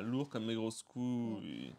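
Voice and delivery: drawn-out echo of the clip; imitating the clip. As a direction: stretch each word out slowly, mimicking the clip. Reprend le son du clip. (imitation traînante du clip)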